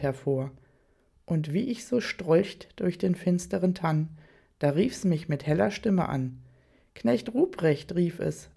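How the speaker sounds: measured, solemn Christmas verse, slowed in places; poem recitation. Acted. The speaker recites the poem to the room, solemn and measured. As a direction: recite Storm's poem like a stately Knecht Ruprecht.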